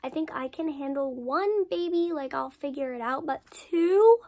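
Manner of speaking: mock horror at the thought of twins; panicked disbelief. Teen girl imagining twins, rising to loud disbelief. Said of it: "I was like".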